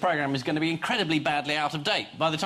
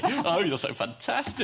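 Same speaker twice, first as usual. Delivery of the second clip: Sarkozy impression; 4 semitones higher, slower than usual. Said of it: "that's my, um, Sarkozy impression".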